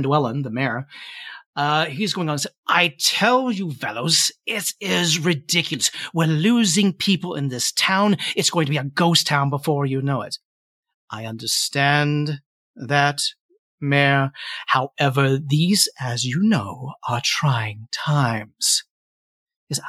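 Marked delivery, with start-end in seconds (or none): 2.7-10.4 lightly voiced small-town official, exasperated; Fen Dwellin, complaining mayor. Mayor warning fellows about losing townsfolk, mildly indignant. 11.1-18.8 lightly voiced diplomat, slow and deliberate; measured white-haired gentleman. Gentleman soothing the mayor about trying times, measured and patient.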